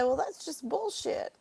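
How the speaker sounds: slow, scornful imitation of the redneck; mocking redneck. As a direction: drag it out like a dismissive stranger. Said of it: "I heard him say".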